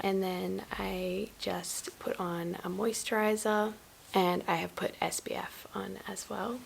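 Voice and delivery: rusty, croaky just-woke-up voice; croaky morning voice, still sleepy. Real, not acted. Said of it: "Sorry if my voice is a bit croaky".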